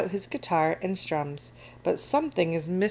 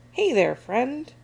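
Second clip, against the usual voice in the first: higher, friendly call; mild yell; 6 semitones higher, 4 dB louder than usual. A narrator's reading. Captain hailing the sea monster for help, mild yell. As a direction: call out to a friend across water. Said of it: "he yells to the sea monster".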